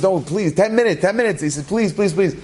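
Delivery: lightly acted begging at a closing door; urgent pleading. Customer begging a closing pharmacy, urgent plea.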